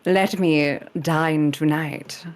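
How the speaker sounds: mock-proper Hollywood English; Hollywood English accent. Shown as a demonstration. Showing off a proper English accent to the panel, Hollywood English. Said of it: "just, like, Hollywood English".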